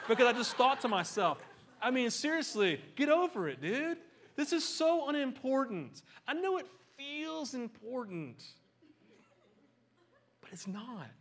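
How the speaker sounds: laughing exasperation. Real, not acted.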